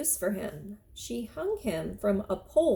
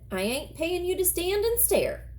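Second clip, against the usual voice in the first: put-on scolding old woman; 9 semitones higher than usual.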